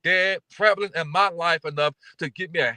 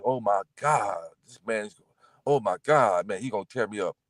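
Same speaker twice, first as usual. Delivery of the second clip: scared inner voice; 7 semitones lower, 5 dB quieter than usual. Retold or imitated. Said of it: "I was like".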